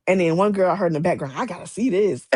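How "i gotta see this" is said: laughing. Retold or imitated. Girl overheard in line.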